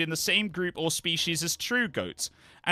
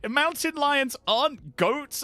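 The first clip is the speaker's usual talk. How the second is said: high, slow bewildered question; baffled disbelief; 9 semitones higher, slower than usual. Real, not acted. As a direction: sound utterly confused by it. Baffled by search results.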